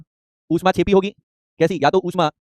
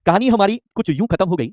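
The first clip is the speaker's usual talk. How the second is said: slow, falling first line of a couplet; slow shayari recitation; slower than usual. Shown as a demonstration. Teacher reciting a shayari to the online class, slow and soulful. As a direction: recite it slowly, like a poet opening his verse. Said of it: "एक शायरी हो जाए".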